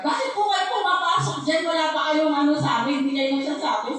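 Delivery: a touch of the guard's angry telling-off; angry guard scolding. Retold or imitated. Guard scolding the family for entering, mild mock anger. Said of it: "galit na galit".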